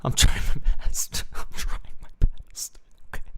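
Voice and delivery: voiceless, strained pleading; hammed-up desperate plea. Streamer pleading with viewers to believe the effort, strained and voiceless. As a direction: plead as if the voice has given out.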